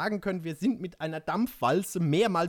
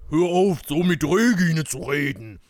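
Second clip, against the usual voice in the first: loud, acted warning; threatening; 9 dB louder than usual. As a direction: cut in forcefully as a threat. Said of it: "drohte Thunderbolt".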